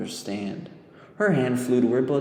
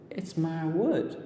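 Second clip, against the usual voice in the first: put-on surprised girl; 6 semitones higher, slower than usual. A narrator's reading. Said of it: "surprised by the question".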